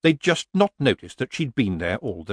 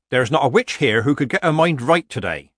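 put-on outspoken old witch, slightly raised voice; lightly voiced Nanny; 4 semitones higher, 4 dB louder than usual. Nanny tells off her sister witches, blunt and emphatic. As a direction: scold the other witches, lightly in character.

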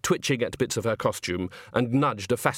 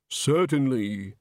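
stiff barking toy soldier; much slower than usual. Acted. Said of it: "The voice had lost the uncertain, frightened edge".

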